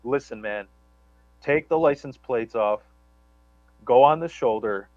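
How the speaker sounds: hint of a blunt coworker laying it out; lightly voiced coworker. Quoting his coworker telling him to torch the car, low and blunt. Crazy coworker's advice quoted.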